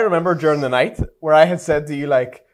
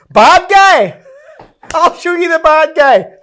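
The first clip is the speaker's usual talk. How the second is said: high, loud mock threat; hammed-up menace in a singer's style; 13 semitones higher, 9 dB louder, slower than usual. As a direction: snarl it like a tough girl. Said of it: the singer's name.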